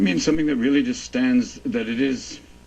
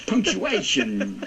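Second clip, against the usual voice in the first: Walken impression; 2 semitones higher, much slower than usual. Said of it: "Question mark. Punctuation".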